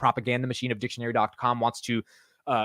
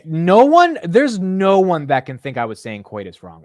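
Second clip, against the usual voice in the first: indignant protest; 5 semitones higher, 9 dB louder, slower than usual. Real, not acted. Indignant defense of pronunciation.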